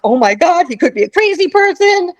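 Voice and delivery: mock-panicked, rising high; hammed-up frightened realization; retold alarm. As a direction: act out alarm while fleeing. Retells fearful thought while running away.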